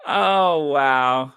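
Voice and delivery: a loud, delighted oh wow; loud proud wow. Real, not acted. Fan to the vlog audience, a loud proud oh wow. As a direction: swell up with pride. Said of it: "I'm so proud today".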